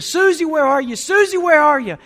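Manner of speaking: high, loud imitated cry of a searching mother; calling out. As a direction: shout for your lost daughter across the store. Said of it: "she was calling out to her little girl".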